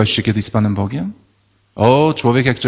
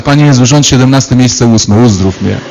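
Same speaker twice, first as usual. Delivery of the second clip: mock calling out; 4 dB louder than usual. Parishioner calling out to Jesus.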